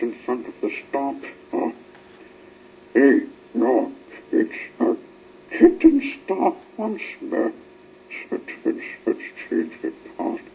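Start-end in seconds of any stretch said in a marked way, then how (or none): 2.9-7.5 excited protest. A narrator's reading. Ten Cents protests loudly.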